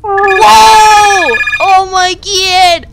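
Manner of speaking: loud, high, slow hammy gasp; wild overacting. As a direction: ham it up in mock shock. Overacting at the cutscene.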